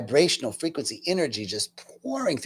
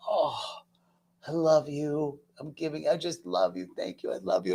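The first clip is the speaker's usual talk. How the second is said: tender hugging; 7 dB quieter than usual. Retold or imitated. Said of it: "like, just".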